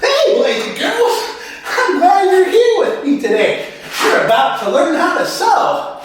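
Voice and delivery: put-on high, sing-out children's host greeting; sewing YouTuber character. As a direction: welcome the kids in a put-on high voice. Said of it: "the sewing machine operator man with a YouTube channel".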